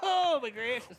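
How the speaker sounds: squealing with laughter; high, laughing exclamation. Real, not acted. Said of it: "Was that a Chewbacca?".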